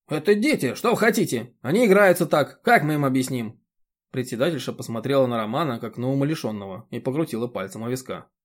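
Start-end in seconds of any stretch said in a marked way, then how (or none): 0.1-3.6 high, loud scolding village busybody; a bossy chairwoman lecturing; indignant chairwoman. Acted. The chairwoman berates Roman about mowing, high and loud.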